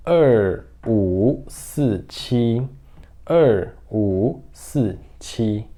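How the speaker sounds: very slow, spaced digits; deliberate digit-by-digit delivery; demonstrated number reading. Shown as a demonstration. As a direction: give each digit its full tone, unhurried. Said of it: "eu falaria assim".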